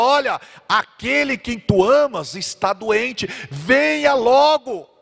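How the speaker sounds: high, slow pleading call; urgent plea. Retold or imitated. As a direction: beg him to come quickly. Sisters send urgent plea. (súplica urgente)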